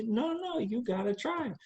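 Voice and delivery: a hint of a sassy New Orleans lady; nosy stranger. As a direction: playfully call out the stranger.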